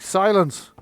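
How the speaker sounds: high, loud shout for order; commanding cry of silence; master's command. Acted. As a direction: shout down a squabbling room. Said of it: "the master's like".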